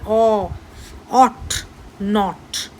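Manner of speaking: separated "ଅ, ଅଟ୍, ନଟ୍", open vowel; AW pronunciation demo. Shown as a demonstration. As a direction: sound out "ଅ", then each word. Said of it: "ଏ ଡବ୍ଲ୍ୟୁ ଉଚ୍ଚାରଣ ଆସୁଛି". ("ଅ" ଧ୍ୱନି ଅଲଗା ଉଚ୍ଚାରଣ)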